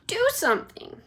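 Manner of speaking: very high shrieked demand; wife shrieking at husband; screaming. Acted. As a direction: shriek at him. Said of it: "Missus Gloop screamed".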